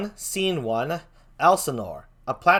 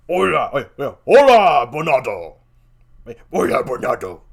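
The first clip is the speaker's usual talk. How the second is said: calling out; 9 dB louder than usual. Acted. Calling out to Bernardo.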